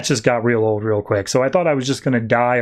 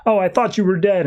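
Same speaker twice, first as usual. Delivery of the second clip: mild, high-pitched reproach; retold mild yell; 6 semitones higher than usual. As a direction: act out telling someone off without shouting. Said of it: "yells at him for saying".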